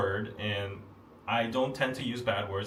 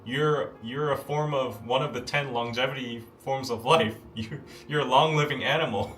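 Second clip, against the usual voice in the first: mock blessing; 3 dB louder than usual.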